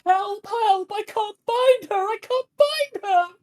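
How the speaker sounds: frantic high-pitched cry for help; Lark Swiftbreeze. Acted. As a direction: scream in panic for a missing child. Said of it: "this is the voice of Lark Swiftbreeze".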